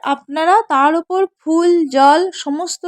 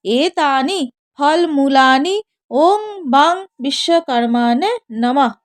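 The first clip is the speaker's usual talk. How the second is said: mantra recitation; slower than usual. Shown as a demonstration. Priest showing worshippers how to say the mantra, slow chant. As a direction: intone it like a priest at puja. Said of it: "মন্ত্র উচ্চারণ করে বলবেন".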